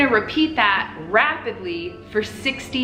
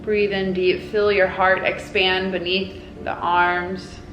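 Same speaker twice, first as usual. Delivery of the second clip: guided meditation. Acted. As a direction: guide them gently into the hug. Leads a guided hug meditation.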